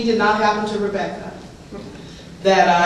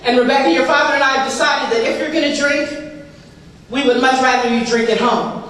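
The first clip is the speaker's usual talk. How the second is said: Rebecca's mother. Retold or imitated. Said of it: "Rebecca's mother says".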